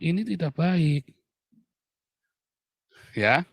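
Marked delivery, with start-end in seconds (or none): 0.0-1.0 firm, spaced-out correction. Shown as a demonstration. Parent telling a child it is not good, firm. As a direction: correct the child without shouting. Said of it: "Tapi Anda harus ngomong".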